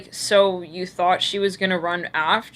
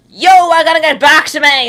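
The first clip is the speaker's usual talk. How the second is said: loud, raised-pitch mock yell; acted outburst; 7 semitones higher, 9 dB louder than usual. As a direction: call it out as a hammed-up demand. Acts out the person yelling.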